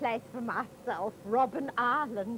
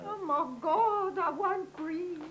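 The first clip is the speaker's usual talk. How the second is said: breathless fright; 4 semitones higher, slower than usual. Acted. Goldie gasps at view.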